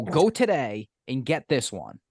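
slow, measured instruction; first insistence. Retold or imitated. Telling a friend which sandwich to get, slow and insistent. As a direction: spell out the order slowly. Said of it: "bitching at him".

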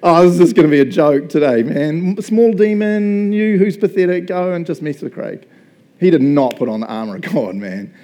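loud, scheming devil; Satan ordering a small demon around; gloating Satan. Retold or imitated. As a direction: rub it in as a smug villain. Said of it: "imagine Satan doing".

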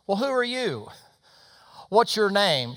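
high, insistent questioning; astonished questioning. Retold or imitated. Visitor asks the waitress who she is, astonished.

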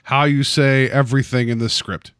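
put-on French accent. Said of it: "I can't do a French accent".

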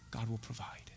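very soft, low whisper. Shown as a demonstration. Abraham to his son before the sacrifice, whispered. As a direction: breathe it out under your voice. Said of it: "Just whisper it".

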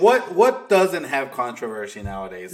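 incredulous laugh through it. Real, not acted.

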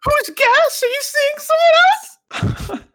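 loud, very high squeal of suspicion; hammed-up squeaky accusation; put-on jealous date. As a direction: play a jealous date in falsetto. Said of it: "She was putting on a voice".

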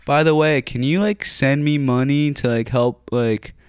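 imitating the boss asking favour; mock boss. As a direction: slide into the ask sweetly.

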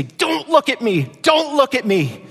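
put-on ashamed child. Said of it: "They say".

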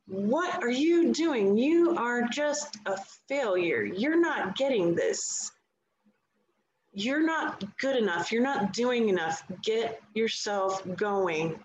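a hint of a nagging controlling voice; voicing the controlling part of the mind, mildly harsh; harsh inner critic. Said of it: "the controlling part can be a real B I C T H".

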